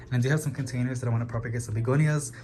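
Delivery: quick, hurried run-through; rushing to get through everything; speaking super fast. Real, not acted. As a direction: rattle it off quickly. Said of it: "I'm sorry if I'm speaking super, super fast".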